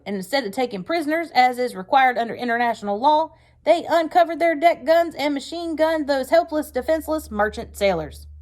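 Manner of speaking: loud, high, sharp-edged war speech; sharper angry voice. Acted. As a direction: hammer home the threat, furious. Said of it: "his voice getting even sharper".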